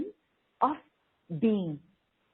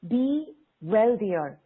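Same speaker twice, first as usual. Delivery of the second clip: slow affirmation; 4 dB louder, much slower than usual. Shown as a demonstration. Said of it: "Play with it".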